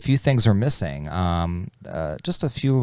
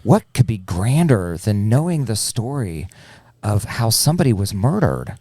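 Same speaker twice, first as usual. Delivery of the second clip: coaxing plea; 3 semitones higher than usual. Acted. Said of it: "I said".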